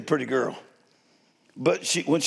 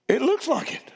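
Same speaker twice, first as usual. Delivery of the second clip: amused retort; 7 semitones higher than usual. Retold or imitated. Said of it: "I said".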